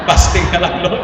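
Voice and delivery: chuckling through the words; laughing. Real, not acted. Half-laughing joke about skipping pricey food. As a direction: laugh it off to the Lord.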